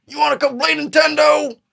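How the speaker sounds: put-on high, eager voice of a lonely man asking a kid over; hopeful invitation. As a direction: ask it with hopeful, high pleading. Randy inviting the kid to play.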